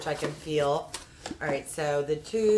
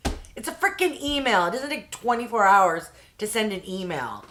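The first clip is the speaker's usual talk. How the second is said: a touch of exasperated venting; half-hearted mock outrage at the agent; retold rant. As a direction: let the irritation boil over at the agent. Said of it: "I'm like".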